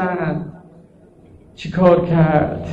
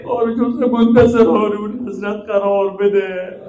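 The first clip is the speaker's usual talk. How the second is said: prayer. Real, not acted. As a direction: pray over the congregation, pleading. Closing prayer of the sermon. (دعای پایانی مجلس، با لحن تضرع)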